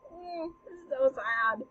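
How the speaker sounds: mock tearful whine; mock weeping. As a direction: pretend to tear up. Mock weeping over the scene.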